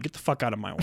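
low, very soft mock grumble; grumbled aside. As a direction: mutter it low under your breath. Muttered acted grumble at kids.

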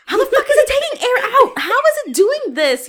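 loud, high, laughing disbelief at the machine; exasperated yell. Retold or imitated. Retelling her rage at the gas station, loud laughing yell. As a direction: belt it out, half laughing, fed up. Furious at broken air machine.

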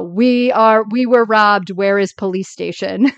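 put-on thick German accent reading from a phrase book. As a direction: tourist in broken English with a German accent. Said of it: "with a German accent say".

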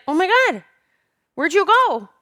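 high-pitched imitation of a panicking child; distressed little girl. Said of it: "one of the little girls".

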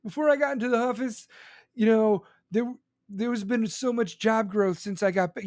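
mocking Biden. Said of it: "He's like".

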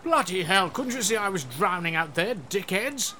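a mild mock rant at his people; half-drowned king fuming. Drowned king blames the dickheads, mild mock anger. Canute furious after drowning.

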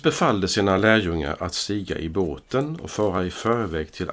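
measured, formal Bible reading voice; scripture reading. Acted. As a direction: read the Gospel aloud to the congregation. Reads the Gospel text aloud.

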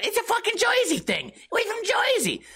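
high mock tough-guy Jersey voice; Jersey accent. Mocking Jersey people's pride.

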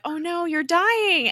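high, drawn-out dismayed cry; mock alarm. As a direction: retell her dismay with a slow, high "oh no". Retelling a character's alarm at dying.

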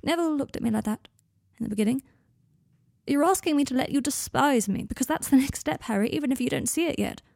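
high, pressing, upset argument; pleading, overwrought warning; distressed. A narrator's reading. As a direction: argue it urgently, pitch lifted. Draco continues his upset argument.

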